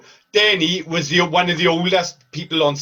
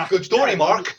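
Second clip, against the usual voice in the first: imitating Johnny; 2 semitones lower than usual. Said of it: "Johnny's reaction is this".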